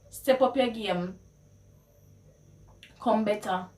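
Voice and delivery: challenging Patois; Jamaican Patois. Shown as a demonstration. Challenging a friend to improve, in Jamaican Patois. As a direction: push them to do better in Patois. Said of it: "how you would translate".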